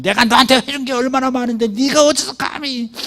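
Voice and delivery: high mock furious parent; hammed-up parent scolding a child. Pastor imitates a parent fighting with a child, mock furious. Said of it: "맞창을 떠버립니다".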